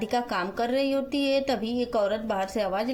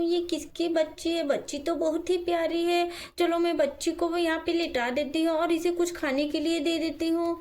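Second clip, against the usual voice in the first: higher-pitched storybook woman's voice; kindly Radhika; 5 semitones higher than usual. Acted. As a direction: play a concerned woman in a children's story. Radhika wonders to herself. (ऊँची आवाज़ में दयालु राधिका)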